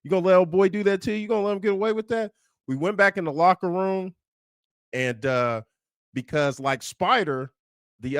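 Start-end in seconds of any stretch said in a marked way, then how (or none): 0.0-2.3 higher, faster taunting push, louder at the end; instigating taunt. Retold or imitated. Teammate goading the sophomore, fast mocking taunt. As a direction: needle him into a fight, speeding up. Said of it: "someone instigated and said".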